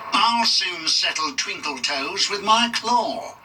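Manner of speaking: snarling villain. A narrator's reading. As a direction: gloat slowly over the threat. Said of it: "he snarled".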